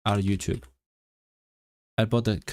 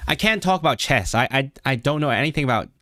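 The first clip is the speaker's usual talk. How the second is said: put-on American, a bit nasal; attempted American accent; 3 semitones higher than usual. Shown as a demonstration. Answering a chat request, tentative nasal American accent. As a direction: try your best American accent. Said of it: "Can you do my best American accent?".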